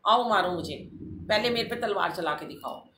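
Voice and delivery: loud, high, daring them to strike; retold defiant shout. Facing the sword-wielding men to shield the girl, loud defiant shout. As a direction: shout the challenge right in their faces.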